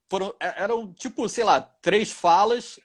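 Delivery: ordinary talk, nothing marked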